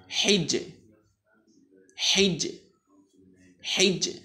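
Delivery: হিজ্জে chanted three times, high and clear; recitation drill. Shown as a demonstration. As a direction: drill the syllable for the class. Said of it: "আপনারা পড়ুন".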